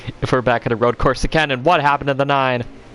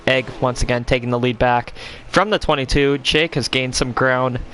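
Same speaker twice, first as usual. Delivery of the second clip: IMSA commentator. Pretend. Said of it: "I'm speaking like a imsa commentator".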